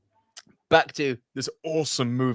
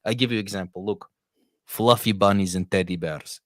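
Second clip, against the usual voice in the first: menacing Russian accent; 4 semitones lower than usual. Shown as a demonstration.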